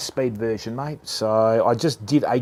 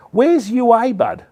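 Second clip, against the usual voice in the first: excited call-out; 10 semitones higher, 7 dB louder than usual. Real, not acted. Streamer calls out to chat viewer.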